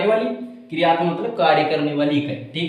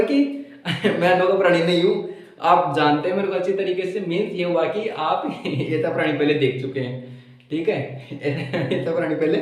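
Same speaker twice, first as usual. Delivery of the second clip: amused, chuckling. Real, not acted. Teacher joking to students about being an odd creature, chuckling. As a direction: chuckle between phrases.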